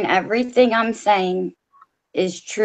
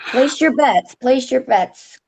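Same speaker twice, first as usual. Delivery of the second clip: raised, high barker's call, slowing on the repeat; 6 semitones higher, slower than usual. A narrator's reading. Mister B calls to his friends to place bets, raised calling out. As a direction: cry it out like a carnival barker. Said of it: "Mister B called out".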